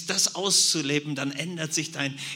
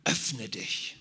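Zauberformel des Anführers; much slower than usual. Retold or imitated. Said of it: "und drei Worte sagt".

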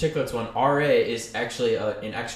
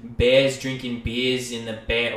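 put-on Boston accent; 4 dB louder, slower than usual. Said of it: "because he's from Boston".

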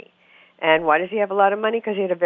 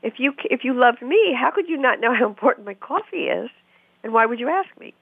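put-on higher hurt girlfriend; 6 semitones higher than usual. Girlfriend to boyfriend about her coffee, higher and hurt. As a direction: lift the pitch, wounded and pleading. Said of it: "her feeling was".

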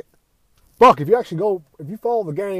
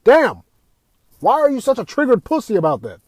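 exasperated retort; 8 semitones higher, 7 dB louder than usual. Retold or imitated. Retort to salty gamers, loud exasperated outburst. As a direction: shout it like you can't believe them. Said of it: "I'm like".

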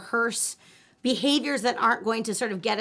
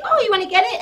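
mock eager owner; 7 semitones higher, 5 dB louder, faster than usual. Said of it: "they say".

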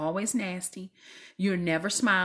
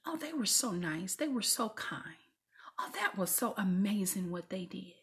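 imitating people; 6 dB quieter than usual. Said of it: "You hear".

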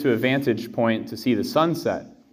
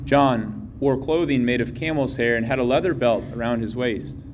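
Gospel reading. Real, not acted.

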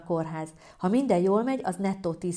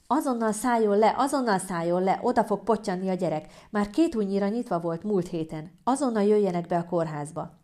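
mildly raised, urgent orders; shouting midwife; 2 semitones higher than usual. Acted. Midwife ordering woman to hospital by phone, mild shouting. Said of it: "ahogy kiabál a telefonból".

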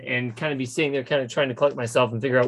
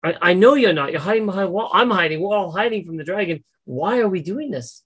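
higher-pitched, insistent acted appeal; in-character plea; 4 semitones higher than usual. Charmed character arguing with a hiding companion, in-character plea. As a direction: plead the point in a raised voice. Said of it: "I'm gonna be talking through the, um, fingernail".

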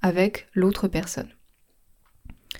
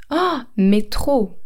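stretched enthusiastic Ah, mais trop; eager, slow exclamation; slow excited mais trop; 3 semitones higher, slower than usual. Shown as a demonstration. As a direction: draw out the yes with delight. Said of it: "Et la réponse".

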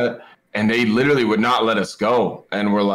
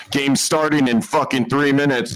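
imitating loud announcer; 4 semitones higher than usual. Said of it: "Loud, over the top of".

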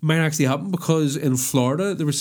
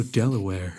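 low mock aftershave-ad voice; lightly hammed-up product tagline; advert voice; 5 semitones lower than usual. Pitching a bad men's aftershave, mock advert voice. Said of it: "that's my advert voice".

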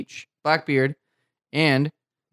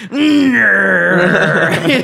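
laughing pirate growl; 4 semitones higher, 7 dB louder than usual. Acted.

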